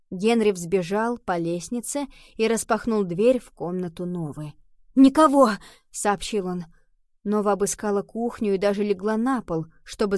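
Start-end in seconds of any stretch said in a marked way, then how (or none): 4.9-5.5 loud, raised shout of report; calling out. A narrator's reading. Henry reports the empty room to Nova, calling out. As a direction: call it down from another room.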